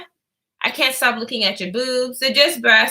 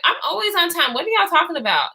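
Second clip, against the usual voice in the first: higher, teasing retort; joking protest; 6 semitones higher than usual. Retold or imitated. Teasing coworkers about being late, higher joking protest. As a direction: toss it back playfully. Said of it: "That's exactly how I said it".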